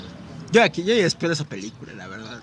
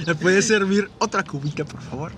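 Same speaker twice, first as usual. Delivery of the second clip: overly polite; 2 semitones higher, slower than usual. Pretend. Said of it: "me vuelvo con muchos modales".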